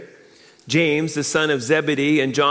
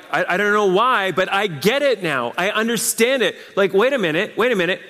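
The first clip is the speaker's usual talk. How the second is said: higher-pitched dawning understanding; acted sudden realization; 5 semitones higher than usual. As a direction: act out it suddenly clicking. Voicing a sudden realization of faith.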